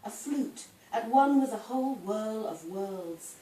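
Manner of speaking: measured dramatic monologue with deliberate phrasing; wry poem performed aloud; poetry reading. Acted. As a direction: recite it as a character confiding in listeners. Reads Missus Pan poem aloud.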